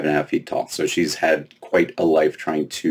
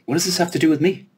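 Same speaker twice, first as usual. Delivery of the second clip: put-on high, exasperated girl's question; bewildered Lena; 11 semitones higher than usual. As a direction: push back, baffled and fed up. Confused Lena questions fairy.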